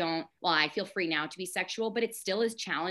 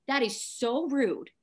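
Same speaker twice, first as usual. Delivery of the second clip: offended; 6 semitones higher than usual. Retold or imitated. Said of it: "I'm offended".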